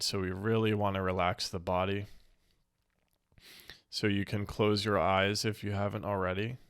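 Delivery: calm meditation guide, unhurried with long pauses; a slightly hushed, settling guided-meditation voice. Real, not acted. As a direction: ease listeners gently into stillness.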